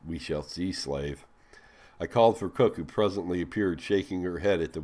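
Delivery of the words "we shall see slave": soft, low, unbothered reply; a quiet, low, calm promise; very calmly. A narrator's reading. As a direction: answer coolly, with no heat at all. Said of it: "I replied very calmly".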